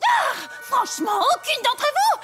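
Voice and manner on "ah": high loud gasp of discovery; excited cry. Acted. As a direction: burst out with a eureka cry. Sudden realisation cry.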